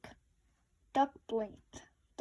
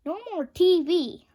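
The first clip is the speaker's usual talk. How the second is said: firm; 5 semitones higher, 8 dB louder than usual. A narrator's reading. Mom echoes firmly.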